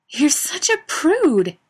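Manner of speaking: high, loud, slow teasing cry. A narrator's reading. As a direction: drag out the tease. Daniil teasing loudly.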